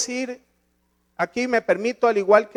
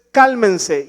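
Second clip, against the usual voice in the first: firm, raised-voice command; forceful imperative; 6 dB louder than usual. Retold or imitated. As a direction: order them to calm down, somewhat loudly. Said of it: "Se los habla fuerte".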